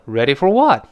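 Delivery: brisk colloquial "Ready for what", falling on what; short casual question, "what" punched; concise spoken form. Shown as a demonstration. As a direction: say "Ready for what" as one quick chunk. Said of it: "当口语中呢，追求简洁".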